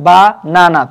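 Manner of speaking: "বা, না, না" in three short beats; "বা, না, না" split up, with brief breaks; syllable by syllable. Shown as a demonstration. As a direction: count out "বা, না, না" as separate syllables. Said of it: "তখন আমরা কিভাবে বলি".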